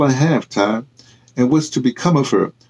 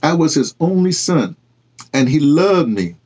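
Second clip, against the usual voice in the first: quiet pride; 3 semitones higher than usual. Acted. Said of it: "Ty Renee said quietly".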